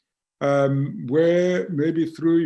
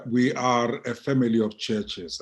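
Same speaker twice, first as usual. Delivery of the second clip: family said with firm weight; stress on family. Real, not acted. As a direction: lean on the word family. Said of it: "I'm emphasizing the word family".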